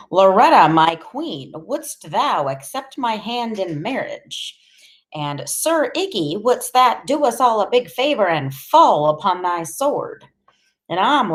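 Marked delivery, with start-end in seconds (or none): 0.1-4.6 lightly hammed-up courtly suitor, slow; mock knight. Boy clowning for his friend, mock courtly proposal. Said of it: "strutting around saying stuff like". 5.5-10.2 hammed-up challenge in a high courtly voice; mock knight. Boy clowning for his laughing friend, mock knightly challenge. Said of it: "strutting around saying stuff like".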